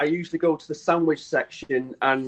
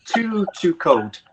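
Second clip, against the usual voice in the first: slow; 4 semitones higher, much slower than usual. Real, not acted. Echoing the weather remark.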